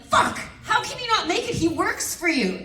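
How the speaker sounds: high, indignant mock outburst; mock outrage. Director hearing the news, mock outraged. Retold outrage at losing Undertaker.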